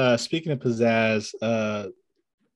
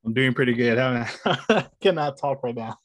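numb mouth, words slurred; talking through a numb mouth; after wisdom teeth. Real, not acted. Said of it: "I just cannot move my mouth at the moment".

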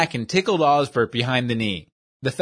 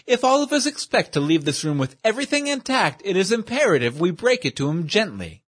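higher, fussy formal voice; a prissy schemer urging caution; pompous gentleman; 5 semitones higher than usual. Acted. Schemer warns his cohorts before the boss arrives, high and prissy.

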